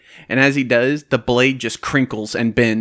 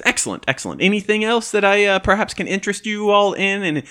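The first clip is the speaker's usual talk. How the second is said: shopkeeper voice; 6 semitones higher, 3 dB louder than usual. Acted.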